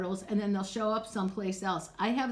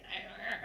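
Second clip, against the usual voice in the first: soft strain grunts; 9 dB quieter than usual. Retold or imitated. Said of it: "Not like when you're putting jeans on".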